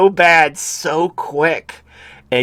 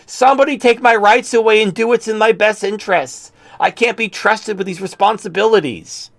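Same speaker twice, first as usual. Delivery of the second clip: sneering impression of a helpless woman begging, higher; mock pleading woman; 8 semitones higher than usual. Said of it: "They're like".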